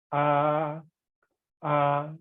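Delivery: "ah" held level without movement; flat tone. Shown as a demonstration. Teacher leading practice of the first tone, flat tone. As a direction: keep "ah" long and even. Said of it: "First one".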